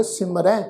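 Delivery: ਸਿਮਰੈ with a nasalized final "ai"; nasal ending. Shown as a demonstration. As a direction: end ਸਿਮਰੈ on an open "ai" sounded through the nose. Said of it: "ਨਾਲ ਬਿੰਦੀ ਲਗਾ ਕੇ ਨਾਸਕੀ tone". (ਸਿਮਰੈ ਦਾ ਅੰਤ ਨਾਸਕੀ tone ਵਿੱਚ)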